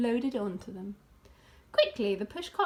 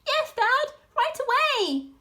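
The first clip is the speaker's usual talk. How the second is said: much higher eager cub voices; fox cubs answering; 13 semitones higher, 6 dB louder than usual. A narrator's reading. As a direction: chirp back keenly. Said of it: "they answered".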